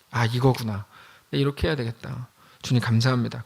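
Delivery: moved quiet prayer. Retold or imitated. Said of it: "막 마음이 뜨거워서".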